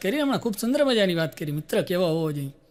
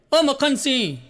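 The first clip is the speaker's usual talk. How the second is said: a mock call up to the thirtieth floor, higher; 5 semitones higher, slower than usual. Someone calling up to the Sardarji, mock shout. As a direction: call O Makhansingh up the building. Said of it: "કોઈ બૂમ પાડી".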